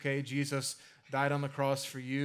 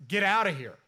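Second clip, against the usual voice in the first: louder hammed-up shove-off yell; mock shout; 5 semitones higher, 7 dB louder than usual. Philistines sending the Ark away on the cart, mock shout. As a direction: bark it like chasing the cows off.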